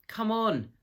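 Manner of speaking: high, bright call almost dancing; delighted cry. A narrator's reading. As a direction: cry out with bubbling joy. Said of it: "cried Mister Beaver, who was almost dancing with delight".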